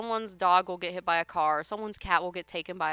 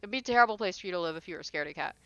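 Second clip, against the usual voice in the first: rattled off fast and offhand; "It'd be a terrible place" tossed off quickly; quick casual retelling; much faster than usual. Shown as a demonstration. Streamer rephrasing it fast and offhand for chat. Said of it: "Most people use the general you".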